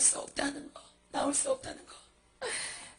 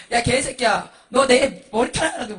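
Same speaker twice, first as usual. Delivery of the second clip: loud thuggish threat; angry cursing; 8 dB louder than usual. Acted. Monk threatening demons over his hair, loud angry cursing. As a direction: hurl the insult at full voice. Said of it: "막 욕을 하는 거야".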